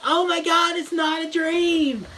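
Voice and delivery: high, startled cry; mock shock. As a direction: gasp it out as the dream turns real. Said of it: "And she's like".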